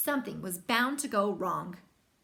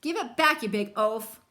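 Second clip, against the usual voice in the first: angry; 5 dB louder than usual. Acted. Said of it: "shouted Brother".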